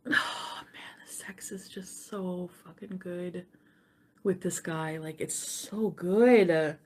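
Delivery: slow breathless whisper. Retold or imitated. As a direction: whisper it like a guilty secret. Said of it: "I'm like".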